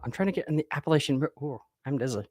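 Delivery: helium voice. Real, not acted. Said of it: "saying it with an accent".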